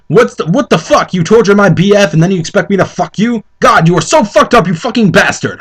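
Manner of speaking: a touch of hammed-up anger; mock angry. Reading the fanfic heroine's outburst aloud, mild mock anger. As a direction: read the insults with mild mock fury. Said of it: "I said angrily".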